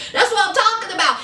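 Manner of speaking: quick, eager echo; fast agreeing. Retold or imitated. Robert backing up his brother, fast and eager. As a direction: rattle it off fast again, nodding along. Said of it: "Robert giving his brother that".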